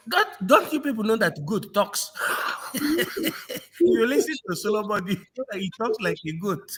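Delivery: fast, laughing through the words; laughing mockery. Real, not acted. Mocking Solomon to the host, laughing through it. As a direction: chuckle as you mock him.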